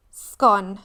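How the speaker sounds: Scone said as skon, rhyme with gone; Scone with a short clipped o. Shown as a demonstration. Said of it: "not scone".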